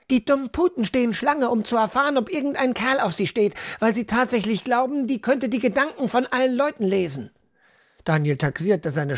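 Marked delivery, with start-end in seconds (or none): 0.1-7.3 put-on high, contemptuous teenage rant; scornful girl. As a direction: sneer at the gullible women. Hannah rants at village women.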